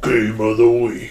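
very low, soft, deep voice in dropped register. Suggesting lowering the pitch, then saying the line with lower pitch. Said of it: "Maybe I lower the pitch".

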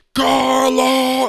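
very high, loud, all-out shout. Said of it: "I'm yelling with everything that I have".

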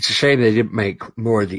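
speech distorted by talking through a yawn. Talking about old games, the speaker yawns mid-sentence. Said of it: "I'm yawning there".

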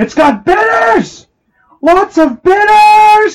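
shrill, very loud, very slow drawn-out scream. Describing a video, the speaker repeats what a guy shouts; retelling a guy screaming. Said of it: "And he's screaming".

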